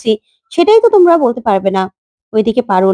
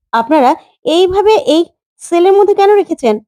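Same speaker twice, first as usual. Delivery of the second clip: rising, higher outraged question; indignant lawyer; 6 semitones higher than usual. Acted. Lawyer scolds police over the cell, indignant. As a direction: demand why she is held here.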